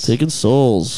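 slow, dark doom voice; ominous voice. Pretend. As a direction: intone it slowly like a reaper. Ominous echo of soul joke.

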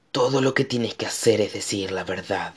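calm him like a kind giant; friendly monster voice. A narrator's reading. Monster tells Connor the truth. (voz de monstruo suave y amable)

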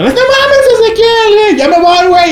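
high, panicky squeal of a frightened friend; imitating a friend losing his nerve in the dark; scared friend. (imitando a un amigo asustado, chillando agudo)

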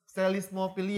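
selismopilia with no P sound; selismopilia, P silent. Shown as a demonstration. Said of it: "bacanya tetap". (selismopilia tanpa P)

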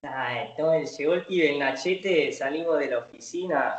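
a light imitation of an Argentine accent, retelling the story; acento argentino. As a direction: tell the story as a porteño would, lightly put on. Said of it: "El acento argentino". (imitación leve de acento argentino)

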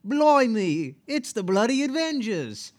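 high-pitched, hammed-up British accent; mock British accent. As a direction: put on a cartoonish Brit voice. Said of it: "do it with a British accent".

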